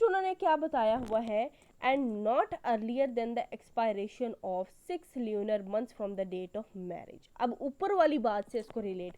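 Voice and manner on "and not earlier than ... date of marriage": very slow, word by word, dictating the statute; slow dictation. Shown as a demonstration. Law teacher reading the statute to students, slow dictation. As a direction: read each word out slowly so students can copy it. Reads statute text aloud.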